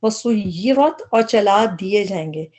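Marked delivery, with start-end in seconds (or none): 0.0-1.0 وسیرت stretched very slowly, syllable by syllable; slowed-down teaching read; slow, drawn out. Shown as a demonstration. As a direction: spell out وسیرت at a crawl. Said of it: "تو اس کے ساتھ بھی آپ لکھ لیں".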